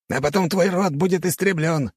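high-pitched, menacing count; snarled threat. A narrator's reading. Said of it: "оскалился граф".

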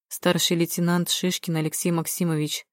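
understated, matter-of-fact police report; official report. A narrator's reading. Policeman introducing himself with his ID, officially reporting. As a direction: state rank and name like a routine report. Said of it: "отрапортовал он и показал".

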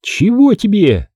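sullen woman. A narrator's reading. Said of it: "глядела хмуро".

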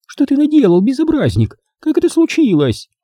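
high-pitched, indignant telling-off; shocked, high-pitched reproach; Maisie scolding. A narrator's reading. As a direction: scold a naughty boy in a high voice.

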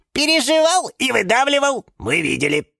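high, loud tattling; eagerly chiming in. Acted. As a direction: chime in as tell-tale witnesses. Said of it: "подхватили фикусы". (наперебой ябедничая)

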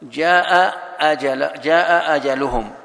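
very slow, drawn-out جاء أجلهم; slow recitation. Shown as a demonstration. Sheikh reciting the two-hamza verse slowly. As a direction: recite it long, lingering on جاء. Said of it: "مثل قوله تعالى".

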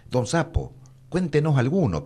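high, eager pleading; excited plea. A narrator's reading. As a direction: beg eagerly like an excited child. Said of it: "pidió entusiasmada la Corzuela".

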